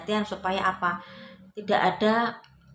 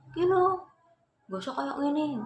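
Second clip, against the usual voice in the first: very high-pitched wife voice; high, mildly hammed-up retold call; imitated wife calling out; 10 semitones higher than usual. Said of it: "sang istri teriak".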